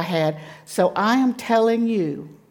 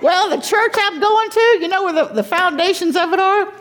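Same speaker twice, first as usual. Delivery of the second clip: laughing; 11 semitones higher, 5 dB louder than usual. Real, not acted. Laughing while telling about church.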